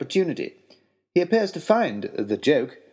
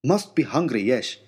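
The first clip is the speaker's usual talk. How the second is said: Finnish guide. Acted. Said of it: "our Finnish guide".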